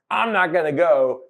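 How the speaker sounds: a brief hint of the stubborn kid; defiant child. Dad recalling his son's first refusal, mildly defiant.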